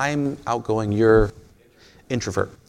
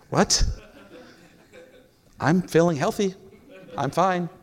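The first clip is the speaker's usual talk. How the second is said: mildly mock-bewildered, higher pitch; baffled reply; 8 semitones higher than usual. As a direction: answer an odd question in puzzled, high voice. Acted baffled reply to church pitch.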